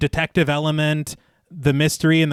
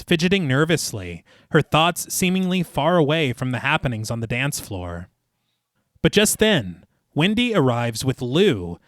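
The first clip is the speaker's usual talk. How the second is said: measured, lilting storyteller read; story narration. A narrator's reading. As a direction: narrate the scene phrase by phrase, each falling to a close. Reads the film rewrite aloud.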